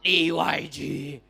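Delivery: "D Y G" spelled out slowly letter by letter; "D Y G" spelled slowly in patois; patois spelling. Shown as a demonstration. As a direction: drag out "D Y G" slowly. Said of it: "In Jamaican patois".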